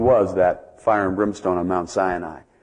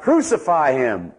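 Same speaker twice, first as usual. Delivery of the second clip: a mild mock crowd yell, drawn out slowly; 4 semitones higher than usual. Preacher voicing the crowd's first cry to Pilate, mild slow yell. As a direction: call "Crucify him!" slowly, only a little raised. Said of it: "And they yell out".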